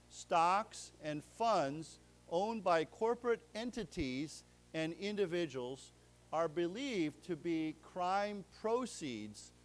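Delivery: slow, careful reading of a news text; slow reading aloud. Shown as a demonstration. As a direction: read it out slowly for the class. Teacher reads the news text.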